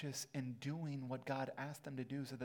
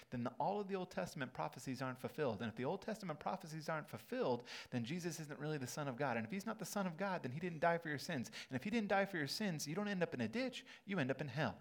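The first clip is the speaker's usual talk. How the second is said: building preaching intensity; faster than usual. Real, not acted. Building chain of consequences.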